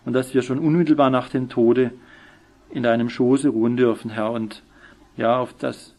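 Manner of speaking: subdued, reverent prayer; humble thanks addressed to the Lord. Real, not acted. Leads a closing prayer.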